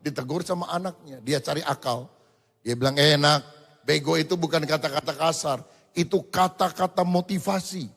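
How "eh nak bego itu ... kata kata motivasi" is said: put-on father bluffing to his child; clever excuse.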